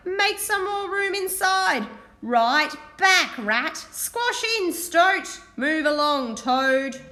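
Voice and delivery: busy driver barking orders; driver calling orders. Acted. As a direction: order the animals to squash in. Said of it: "she cried".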